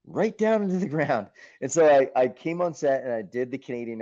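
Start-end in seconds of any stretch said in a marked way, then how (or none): 0.0-1.3 higher, half-laughing rallying cry to himself; fired-up self pep talk. Retold or imitated. Actor psyching himself up about the role, fired up and higher. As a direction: psych yourself up to take the risk.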